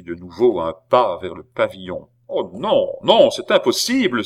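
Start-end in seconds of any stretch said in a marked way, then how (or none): 2.3-4.2 rising to a high, loud protest; desperate outcry of refusal; cry out. A narrator's reading. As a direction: cry it out in disbelief. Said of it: "s'écria Philippe".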